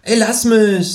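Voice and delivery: high, dismissive kangaroo; annoyed kangaroo. Acted. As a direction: kangaroo fending off the narrator over the phone. Kangaroo brushing off.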